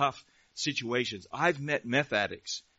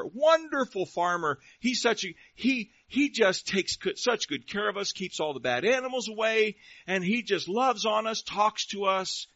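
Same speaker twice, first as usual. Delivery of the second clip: higher-pitched, adoring farm animal; gushing farm animal; 6 semitones higher, 3 dB louder than usual. Acted. Cow and chicken talking about their wonderful farmer, gushing. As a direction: gush fondly about your master in a lifted voice.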